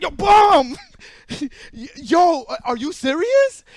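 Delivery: retold angry yell at a friend; mock yelling scold. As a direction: bark it at him in outrage. Friend scolds him for working free.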